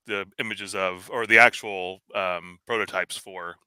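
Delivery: glitchy robotic audio; choppy digital robot sound. Real, not acted. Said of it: "you've turned into a robot again".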